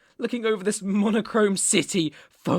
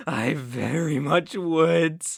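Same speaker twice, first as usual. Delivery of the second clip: menacing confirmation; 4 dB louder, slower than usual. Acted. Answers mocked doubt with threat.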